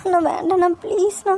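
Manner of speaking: frightened, weepy plea for mercy; tearful pleading. Acted. Captive girl begging her would-be killer to stop, tearful pleading. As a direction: beg him tearfully, pitch lifting on the last please. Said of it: "இன்னும் அழுகவா செய்ற நீ?".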